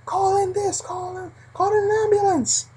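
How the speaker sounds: high urgent shout for help; guard urgently calling an ambulance. Retold or imitated. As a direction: yell for an ambulance.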